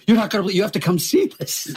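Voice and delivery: high-pitched imitated alarm; hammed-up urgency, pitched high; mock urgent summons. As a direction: act out an agitated roommate. Retells roommate rushing out alarmed.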